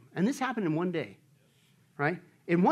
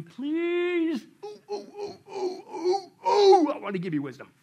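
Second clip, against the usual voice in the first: high, whiny, eager ooh-ooh voice; high whimpering eager student pleading; Arnold Horshack; 13 semitones higher, 5 dB louder, slower than usual. Retold or imitated. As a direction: beg like a kid desperate to be called on. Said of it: "literally like Arnold Horshack".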